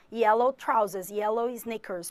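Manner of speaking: yellow trousers said slowly in English; careful teacher model; slow English demo. Shown as a demonstration. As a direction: spell out yellow sneakers for the class. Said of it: "trousers ou então sneakers".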